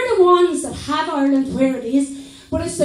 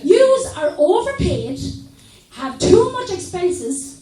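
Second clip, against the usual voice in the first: imagined speech to government. Retold or imitated. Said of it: "get to Dublin and say".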